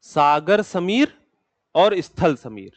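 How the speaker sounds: each term spaced out slowly for the class; slow naming of terms. Shown as a demonstration. Teacher to students naming the Hindi terms, slow and spaced. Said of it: "सी, sea and land breeze".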